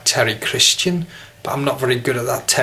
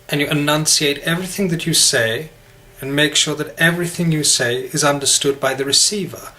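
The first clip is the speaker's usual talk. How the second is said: Queen's English; 2 semitones higher than usual. Shown as a demonstration. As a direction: enunciate every word in old BBC English. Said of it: "like the Queen".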